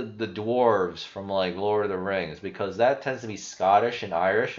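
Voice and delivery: normal talking voice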